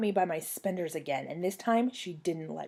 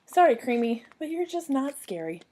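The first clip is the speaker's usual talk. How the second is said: higher-pitched mock-apologetic put-down; dismissive; 6 semitones higher than usual. A narrator's reading. Cinderella telling the clown she isn't scary, dismissive. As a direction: let the kid down with sing-song pity.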